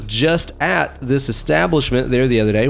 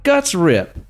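excited; 7 semitones higher than usual. Real, not acted. Excited list of gore.

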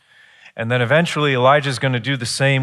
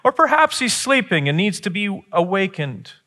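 mocking taunt; 6 semitones higher than usual. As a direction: jeer at them like Elijah. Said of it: "Elijah is mocking and saying".

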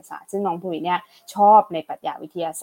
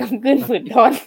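puzzled echo; 5 semitones higher, 6 dB louder than usual. Real, not acted.

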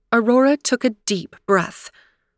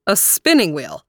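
puzzled stranger. A narrator's reading. Stranger echoing Aurora's request, puzzled. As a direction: echo the odd request. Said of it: "said the stranger".

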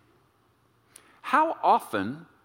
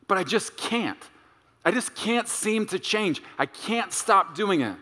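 pleading; 6 semitones higher than usual. Acted. Voicing someone struggling with sin.

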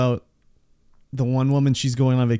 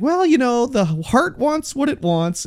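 mock dreamy coworker; 10 semitones higher, 4 dB louder, slower than usual. Mocking coworker's dreamy excuse.

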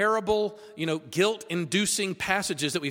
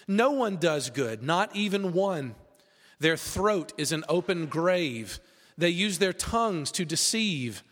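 scripture reading; 2 semitones lower than usual. Acted. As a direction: read the passage with weight and gravity. Preacher reads Romans aloud.

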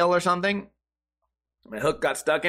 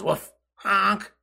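bark and honk imitation; 4 semitones higher than usual. Dog and goose imitation.

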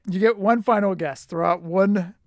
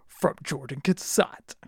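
movie voice; 3 semitones lower, 4 dB quieter, slower than usual. Shown as a demonstration. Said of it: "I'll do it in my movie voice".

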